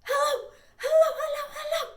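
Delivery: quick high hello, laughing; fast. Shown as a demonstration. Librarian leads kids in a fast hello game, quick and laughing. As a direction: rattle off hello as fast as you can. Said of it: "Let's say hello as fast as we can".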